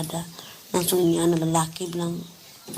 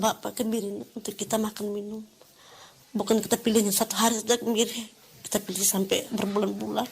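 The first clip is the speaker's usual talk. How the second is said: tearful; 4 semitones higher than usual. Real, not acted. Still tearful, retelling her own plea.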